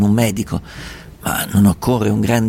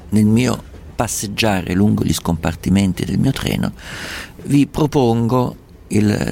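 slow, measured radio host; slower than usual. Acted. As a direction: ease listeners into the next letter. Radio host introducing segment.

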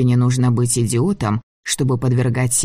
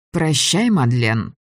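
evil queen; slower than usual. Acted. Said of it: "проговорила королева холодно".

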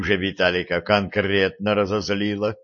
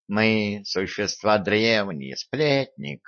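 slow, sullen and soft; grim, heavy delivery; gloomy; 3 dB quieter, slower than usual. Acted. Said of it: "хмуро сказал Васька".

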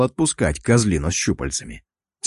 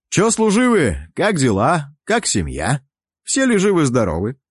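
cheeky greeting; 5 semitones higher than usual. Acted. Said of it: "поинтересовался я".

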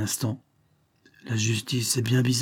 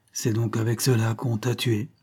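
tearful. Acted. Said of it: "des pleurs dans sa voix".

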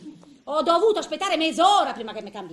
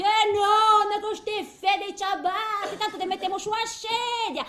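bossy nurse; 6 semitones higher than usual. Retold or imitated. Nurse voiced in old lady's story.

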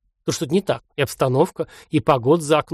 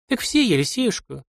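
sobbing; 6 semitones higher than usual. Acted. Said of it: "снова всхлипнула женщина".

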